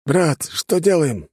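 slow, high scared question; frightened. A narrator's reading. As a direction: ask it slowly, in fear. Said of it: "он выглядел испуганным".

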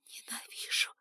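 hissed whisper of hatred. A narrator's reading. Captive girl whispering her hatred to the lord. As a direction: breathe the word out full of hate. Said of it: "Этот шёпот".

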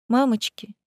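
tearful drawn out wail; whiny drawn-out cry. Acted. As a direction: stretch it out tearfully. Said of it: "плаксиво протянула Лиза".

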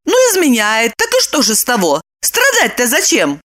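high, lightly voiced woman; breezy Lipochka. Lipochka shrugs off Roman's suffering, breezy. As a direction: brush it off in a high voice.

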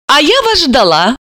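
high, sweet lilt; sweetly smiling. A narrator's reading. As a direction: say it with a friendly smile. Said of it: "с милой улыбкой".

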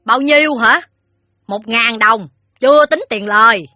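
high, loud, snooty reply; haughty, petulant. Acted. Moneylender telling the father the debt, petulantly. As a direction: toss it out loudly with haughty airs. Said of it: "Hai Lung nói giọng đỏng đảnh".

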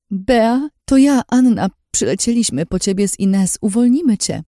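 high, loud, eager call; urgent reassurance. A narrator's reading. Telling captive friend rescue has come, urgent reassurance. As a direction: call out with desperate hope.

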